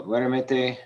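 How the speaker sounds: duermete stressed on DUER; DUER-me-te, stress up front; stress on first E. Shown as a demonstration. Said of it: "the stress is on that, that E".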